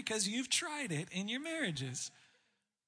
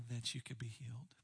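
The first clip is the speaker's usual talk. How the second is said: whispered, low and soft; hushed whisper; 7 semitones lower, 6 dB quieter, faster than usual. Real, not acted. Preacher closing the verse to the congregation, whispered. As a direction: let the promise fall to a whisper.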